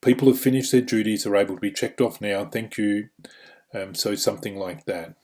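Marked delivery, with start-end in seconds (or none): 0.0-3.1 brisk group announcement; quick, businesslike instruction easing off to thanks; non-confrontational. Shown as a demonstration. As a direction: ignore the bait and move things along. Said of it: "try ignoring the bait".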